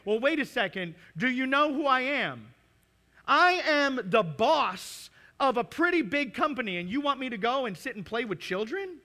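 mock offended big shot; indignant boss. Preacher voicing a proud boss to the church, mock offended.

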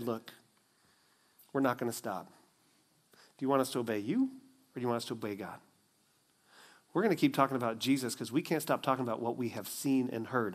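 quiet resolve. Acted. Peter defies the religious leaders.

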